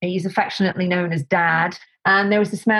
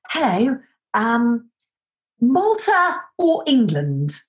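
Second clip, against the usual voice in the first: slow and higher, blunt question; abrupt phone caller; 3 semitones higher, slower than usual. Retold or imitated. Set decorator phoning with a job, slow higher curt question. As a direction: lightly mimic the caller's curt offer. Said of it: "Like that".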